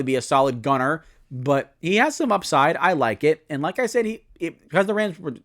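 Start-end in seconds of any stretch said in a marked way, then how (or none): 4.1-5.3 stumbling over the words; stuttering, losing the thread. Real, not acted. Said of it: "I'm kinda stuttering right now".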